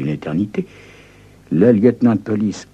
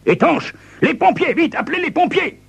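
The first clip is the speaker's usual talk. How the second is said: panicked. Acted. Lieutenant panics over the bomb.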